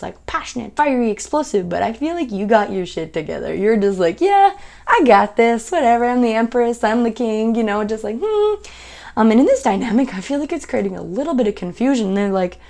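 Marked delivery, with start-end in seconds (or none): 4.2-7.5 mock regal confidence; smug self-assured quote. Mocking a self-assured partner. 8.2-8.5 high, breezy hum of unconcern; mock nonchalant mm; dismissive hum. Imitating partner's dismissive hum.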